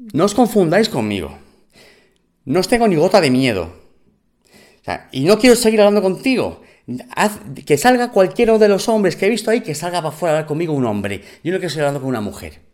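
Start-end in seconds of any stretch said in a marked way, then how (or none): 2.4-10.8 shouting at the woman to fetch the men; retold angry shouting. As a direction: bark the demand to send a man out. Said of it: "ya estoy voceando".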